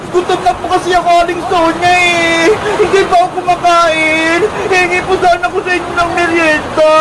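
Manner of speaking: crying. Acted. Hungry girl begs the storekeeper for a snack, crying. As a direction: wail a hungry plea, stretching the words. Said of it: "Umiiyak na!".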